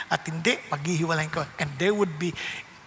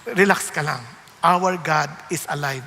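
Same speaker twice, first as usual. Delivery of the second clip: voiced, firm and louder; firm spoken relax ka lang; firmer reassurance; 6 semitones lower, 3 dB louder than usual. Shown as a demonstration. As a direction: say it with confident assurance.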